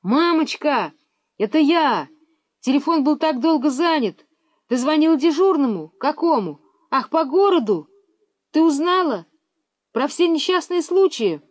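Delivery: high, loud excited yell into phone; boy yelling into phone; yelling to mum. A narrator's reading. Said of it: "Неожиданно заорал".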